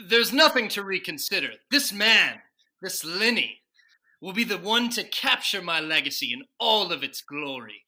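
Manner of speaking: emphatic, declaiming presidential speech; grand proclamation. Acted. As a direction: proclaim it proudly to posterity. Washington's grand speech defending Lenny.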